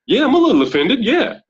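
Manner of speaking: put-on high, sulky little-boy whine. Retelling the stranger on the stairs, high hurt little-boy voice. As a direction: play the grown man shrinking into a hurt kid. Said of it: "you can see the little boy".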